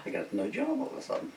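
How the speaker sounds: high, whining moan about no work; a put-upon carpenter wailing he has no job; whiny complaint. Retold or imitated. Jesus grumbling about unemployment.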